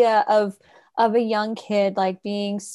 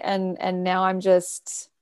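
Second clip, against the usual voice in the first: tipsy whisper; 3 semitones lower, slower than usual. Real, not acted. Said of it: "I finished my daiquiri".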